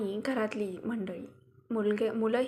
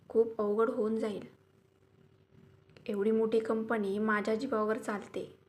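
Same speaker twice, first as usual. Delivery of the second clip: yelling. Acted. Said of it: "Aniruddha आता लताला ओरडत होता".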